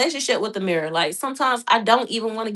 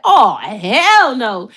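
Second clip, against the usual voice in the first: slow disbelief; 3 dB louder, much slower than usual. Retold or imitated. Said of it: "I said".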